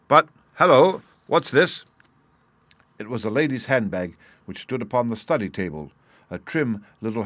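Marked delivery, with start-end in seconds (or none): 0.1-1.8 louder, higher exclamation of discovery; sudden surprise. A narrator's reading. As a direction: break off, struck by an unexpected find. Detective suddenly spots a handbag.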